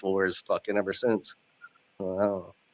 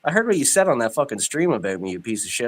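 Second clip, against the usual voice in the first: mock angry; 2 semitones higher than usual. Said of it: "A fake fight?".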